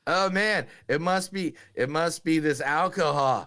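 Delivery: put-on slurry, loud drunk guy; blackout drunk. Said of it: "I'm so drunk right now".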